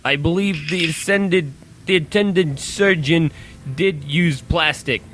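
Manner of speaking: lightly put-on British gent; British accent. Disguised Penguin makes his excuse, mock British accent. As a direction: explain in a careful fake British accent. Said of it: "Redhead accent".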